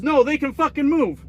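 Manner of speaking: high-pitched, indignant mock refusal; dad losing it. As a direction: snap back like an exasperated dad. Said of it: "he's losing his shit out there".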